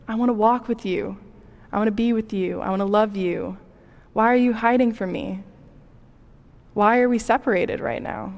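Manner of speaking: a hint of a tender father inviting his child back; gentle and inviting. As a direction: voice God as a loving parent calling a hiding child. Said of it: "the questions are gentle and inviting".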